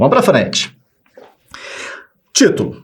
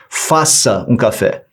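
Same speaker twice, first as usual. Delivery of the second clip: "Faça um café" slow and lower, a flat command; ordering tone; 4 semitones lower, slower than usual. Shown as a demonstration. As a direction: order the coffee. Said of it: "Olha o tom verbal que eu usei". ("Faça um café" em tom de ordem, mais grave)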